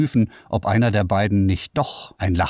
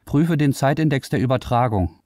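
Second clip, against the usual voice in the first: commanding; 8 semitones higher than usual. Acted. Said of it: "befahl Florian".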